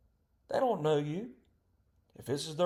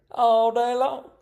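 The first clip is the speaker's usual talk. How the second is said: drawn out; 7 dB louder, slower than usual. Retold or imitated. Drawn-out end of mock quote.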